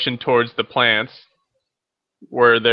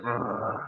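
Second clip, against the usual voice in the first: little grumble; 13 dB quieter than usual. Acted. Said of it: "he just kinda gives a little grumble".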